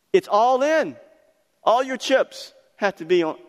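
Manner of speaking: high, loud preaching cry; rising preacher shout. Acted. Preacher urging the congregation to commit, loud and high. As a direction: punch it out, all in.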